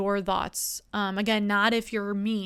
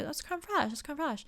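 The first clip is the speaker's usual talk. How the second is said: mocking the friends; 5 semitones higher, 7 dB quieter than usual. Friends answer in unison.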